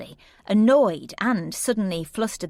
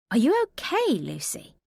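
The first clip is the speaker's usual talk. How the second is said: higher, worried check-in; concerned friend; 6 semitones higher than usual. Acted. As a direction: ask gently but doubting.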